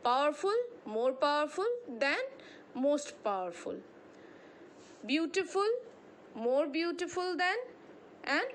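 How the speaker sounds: patient drill reading; reading examples aloud. Acted. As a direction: chant the examples like a drill for students. Reads comparison examples to class.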